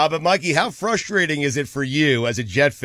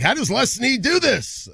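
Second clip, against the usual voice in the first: mock disbelief; 12 semitones higher than usual. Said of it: "they're like".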